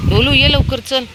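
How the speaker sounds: high, loud call to a dog. Real, not acted. Woman calling Dholu to come quickly, high loud call. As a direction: call the dog over from afar.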